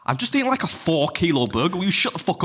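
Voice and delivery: high, exasperated retold rant; mock exasperated rant. Telling off his mate for moaning about being full, high and exasperated. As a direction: pitch it up in disbelief, then snap. Retelling ranting at friend.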